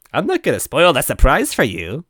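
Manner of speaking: high, loud eerie taunting voice; distorted ghost voice. Acted. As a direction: sneer it in a warped ghostly voice. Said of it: "his voice distorted and wrong".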